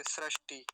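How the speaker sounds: सृष्टि said as "srashti"; offhand सृष्टि with "ra"; common mispronunciation. Shown as a demonstration. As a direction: swap the i for an a in सृष्टि. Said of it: "ऐसे करके".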